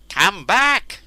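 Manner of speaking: high, loud desperate scream. A narrator's reading. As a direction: yell after the fleeing guards. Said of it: "screamed Cernus".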